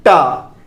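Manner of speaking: TA said alone, tongue touching the palate; demonstrated letter sound. Shown as a demonstration. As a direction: say टा crisply as a model syllable, tongue to the palate. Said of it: "तो बोलिए". (टा का उच्चारण, जीभ तालू से लगाकर)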